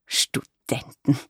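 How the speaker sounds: a very slow, drawn-out, appalled Studenten; mock horror stretched over one word; aghast. A narrator's reading. Mother recoils at the word Studenten, aghast and drawn-out. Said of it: "rief sie entsetzt aus".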